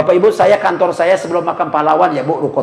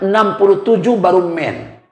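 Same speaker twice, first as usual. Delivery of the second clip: slowed statement; 4 semitones higher than usual. Shown as a demonstration. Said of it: "repeated for emphasis".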